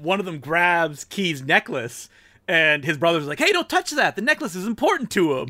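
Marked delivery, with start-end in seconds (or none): 3.4-5.5 protesting brother. Retold or imitated. Brother defends kid's necklace from bully.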